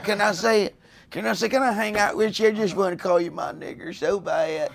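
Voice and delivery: lightly voiced pleading wannabe; mock eager outsider. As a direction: beg like a hanger-on. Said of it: "Can you, like".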